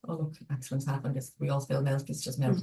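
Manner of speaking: soft, low self-reassurance; gentle and fair. Acted. Speaker models gentle self-talk after spilling milk, gentle and fair. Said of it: "offering yourself a gentle and fair".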